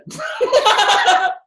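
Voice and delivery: a quick high burst of real laughter. Real, not acted. Speaker laughing at his own punchline, a high real laugh.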